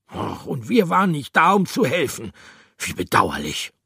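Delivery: lightly ironic character voice; ironic regret. Acted. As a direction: pretend regret, half sarcastic. Reproachful glance, ironic reply.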